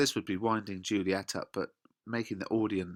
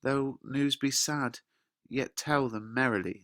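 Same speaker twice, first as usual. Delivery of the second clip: put-on pleading young girl, higher; Juliet; 4 semitones higher than usual. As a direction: coax the nurse eagerly. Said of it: "Juliet says".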